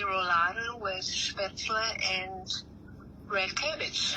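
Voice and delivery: English with a German accent; name the dish in German-accented English. Shown as a demonstration. Friend translates the dish for viewers, in a German accent. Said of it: "with my German accent".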